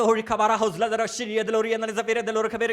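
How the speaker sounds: speaking in tongues. Shown as a demonstration. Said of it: "ఇట్లా అంటా ఉన్నాను".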